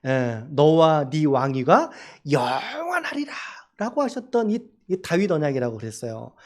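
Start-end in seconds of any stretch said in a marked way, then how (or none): 0.1-3.3 slow, solemn oracle; slow, grave voice of God's promise; solemn pronouncement. Acted. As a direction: draw out the promise slowly.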